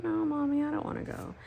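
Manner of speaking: high childlike whine, lightly imitated; daughter's whine. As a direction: play the reluctant little girl. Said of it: "hoping my daughter's like".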